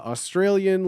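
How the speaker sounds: ordinary talk, nothing marked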